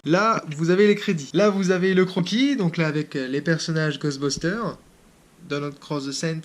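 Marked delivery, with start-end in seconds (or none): 5.5-6.4 weak attempt at an English accent on the names; bad English accent. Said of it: "mon accent anglais est pourri". (accent anglais pourri, à peine marqué)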